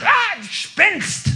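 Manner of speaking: high, drawn-out panicked shout; terrified disciples' shout; frightened cry. Acted. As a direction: cry out at a ghost, stretching it. Disciples see a ghost.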